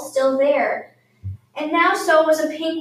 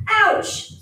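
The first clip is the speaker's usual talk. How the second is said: squeak; 8 semitones higher than usual. A narrator's reading. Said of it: "squeaked Hedgehog".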